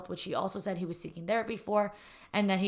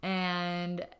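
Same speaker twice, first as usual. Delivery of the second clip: raspy voice. Real, not acted. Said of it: "I'm really sorry about my raspy voice".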